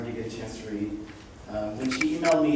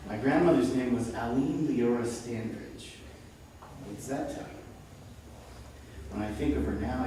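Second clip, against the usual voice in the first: measured, deliberate poetry recital; poem reading; 7 dB quieter than usual. Acted. Poet reading an audience a long poem on remembrance, deliberate recital. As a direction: recite it with weighted pauses between phrases. Reads second poem aloud.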